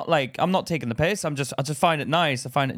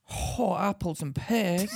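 put-on slow, higher Cockney accent, called out; a hammed-up Cockney impression; 5 semitones higher, 3 dB quieter, slower than usual. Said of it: "do an impression".

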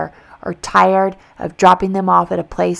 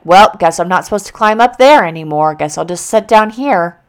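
mock defeated; 5 dB louder than usual. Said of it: "be like".

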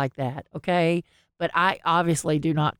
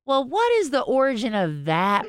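higher, prissy questioning voice to mom; mock nosy child; 5 semitones higher than usual. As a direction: play a fussy kid quizzing a parent. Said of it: "you don't go".

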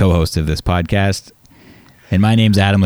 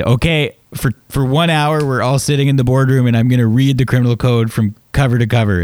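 tag boss character; 4 semitones higher than usual. Retold or imitated. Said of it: "use a little bit of a character".

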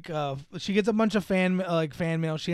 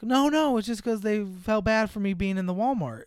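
higher, quick innocent denial; eager reassurance; 5 semitones higher than usual. Retold or imitated. Daughter explaining the gift to her mother, high innocent. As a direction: brush it off brightly. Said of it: "she's like".

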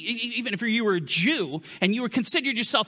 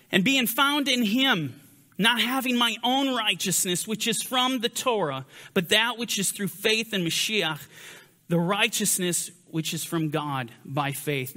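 scripture reading. Acted. Reads scripture passage aloud.

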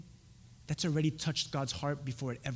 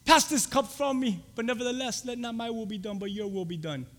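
pleading prayer; 6 semitones higher than usual. Acted. Jesus prays to the Father.

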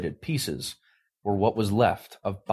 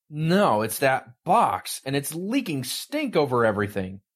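angry boss; 5 semitones higher than usual. Acted. Boss berating his assistant over the stinking box, angry.

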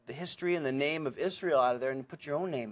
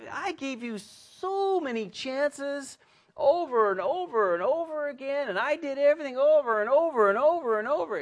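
exasperated; 10 semitones higher, 3 dB louder than usual. Acted. Fed-up God to disobedient people, high exasperated rant. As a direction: draw out the repeats in mock exasperation.

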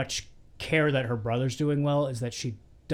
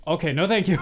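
loud polite brush-off; 4 semitones higher, 6 dB louder, faster than usual. Retold or imitated. Barry politely hanging up.

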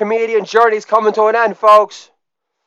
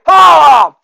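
loud higher holla, dropping at the end; shouted catchphrase; 5 semitones higher, 6 dB louder than usual. Acted. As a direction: belt out holla, pitch falling.

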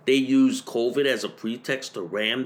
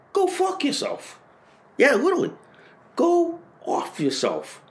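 sudden high-pitched angry blurt; furious outburst. Real, not acted. Ranting vlogger lashing out at the people behind the mandates, furious high outburst. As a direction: snap it out in a burst of rage, much higher. Furious rant at pandemic officials.

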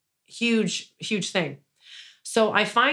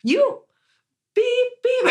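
much higher, louder, mock-furious; indignant outburst; 5 dB louder, slower than usual. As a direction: blurt it out in outrage, pitched way up. Angrily retelling fight with landlord.

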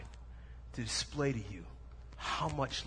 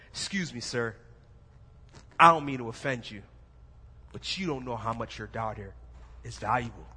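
lightly lowered, confident prince; deep baritone voice; 4 semitones lower than usual. Retold or imitated. Prince with a new backbone addressing the dad, low and firm. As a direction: stick your chest out and speak low. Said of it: "got a deep baritone voice and said".

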